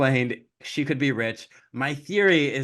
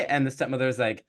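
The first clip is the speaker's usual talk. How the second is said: ordinary talk, nothing marked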